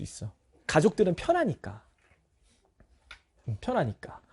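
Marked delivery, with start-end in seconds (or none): none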